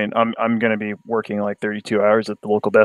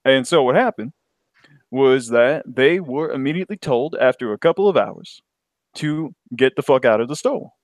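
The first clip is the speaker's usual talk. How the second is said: put-on African American accent; lightly voiced African American accent; black voice. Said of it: "I get my black voice in".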